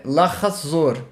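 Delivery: lahazor with three clear syllables, the vowel kept; full lahazor. Shown as a demonstration. Teacher demonstrating the slow Hebrew form lahazor. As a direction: say lahazor slowly, sounding the half vowel. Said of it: "ou então eu posso falar".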